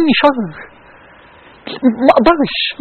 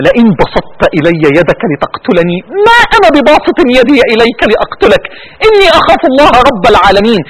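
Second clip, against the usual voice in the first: tearful recitation; 3 semitones lower than usual. Real, not acted. Preacher reciting Abel's words to the congregation, choked with tears. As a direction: let the tears break through the holy words.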